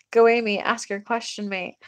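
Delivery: slight Australian accent slipping in. Real, not acted. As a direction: let a little Aussie accent creep in. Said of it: "we're getting a little Australian accents".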